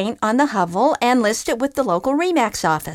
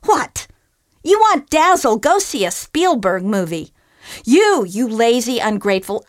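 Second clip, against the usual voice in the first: higher, louder tirade; ranting groundhog; 5 semitones higher, 6 dB louder than usual. Acted. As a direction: tear into the ungrateful bum. Groundhog rants at fisherman.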